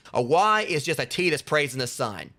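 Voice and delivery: deliberate, drawn-out joke delivery; slow punchline. Real, not acted. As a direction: savor the reveal slowly. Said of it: "punchline delivered slowly".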